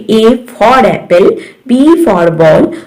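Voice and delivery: "A for apple" with full letter names; name each letter in "A for apple, B for ball"; letter-name method. Shown as a demonstration. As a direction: recite "B for ball" by letter name, not sound. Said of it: "अगर आप अपने बच्चे को बोलेंगे".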